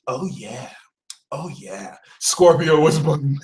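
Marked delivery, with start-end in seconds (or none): 0.1-2.0 soft, dropping lower on the repeat; low, satisfied aside; gloating. Acted. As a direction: murmur it like the trap has closed. Manipulating Scorpio who got you.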